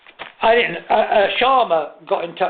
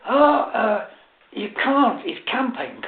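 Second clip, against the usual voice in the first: laughing through the fib; 5 semitones higher, slower than usual. Real, not acted. Lie, dissolving into laugh.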